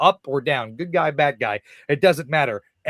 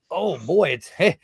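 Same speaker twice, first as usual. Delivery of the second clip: a louder, sheepish hello to his real self; awkward friendly greeting; 3 semitones higher, 5 dB louder than usual. Retold or imitated. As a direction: greet someone you haven't seen in ages, a bit awkward. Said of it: "John had to come out and I'm like".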